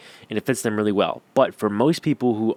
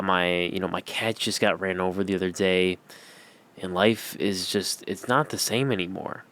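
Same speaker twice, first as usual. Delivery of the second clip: mock sad; 2 semitones lower, 4 dB quieter than usual. Shown as a demonstration. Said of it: "it's like a sob story".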